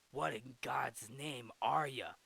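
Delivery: slow, put-on demanding voice; mildly acted incredulous question; baffled villain. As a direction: ask it slowly, as if confronting a strange creature. Acts out Sivana confronting the creature.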